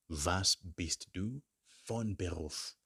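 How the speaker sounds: Was bist du von Beruf said slowly; slow teacher drill; slow model phrase. Shown as a demonstration. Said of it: "You would now ask".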